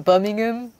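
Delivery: mock Birmingham accent. Shown as a demonstration. Showing off British accents to a co-player, mock Birmingham accent. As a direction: have a go at a Brummie accent. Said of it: "I'm really good with British accents".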